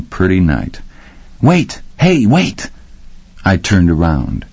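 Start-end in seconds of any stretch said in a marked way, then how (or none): 1.4-2.7 calling out. A narrator's reading. Girl calling after him.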